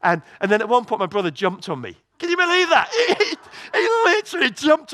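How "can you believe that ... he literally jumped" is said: high, loud burst of disbelief; incredulous. Real, not acted. Preacher complaining to congregation of his brother's prank, incredulous. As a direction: squeal it in outraged astonishment. Indignant at brother's jump scare.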